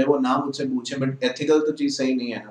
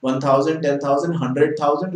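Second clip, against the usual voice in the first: slow counting demo; much slower than usual. Shown as a demonstration. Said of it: "मतलब वो ऐसे समझते हैं".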